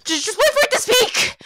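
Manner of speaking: worked-up, exasperated ranting; furious threat. Acted. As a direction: threaten the machine in a rage. Threatens the lift in rage.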